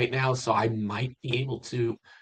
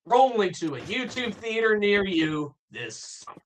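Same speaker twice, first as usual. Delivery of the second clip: trailer voice; 6 semitones higher than usual. Shown as a demonstration. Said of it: "That's pretty good".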